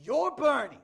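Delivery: put-on high, loud Boston kid; thick Boston accent. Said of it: "talks with a thick Boston accent".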